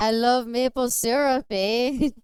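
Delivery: lightly hammed-up Canadian accent. Streamer joking about maple syrup, mock Canadian accent. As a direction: play up the Canadian lilt a little. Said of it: "glad you like my Canadian accent".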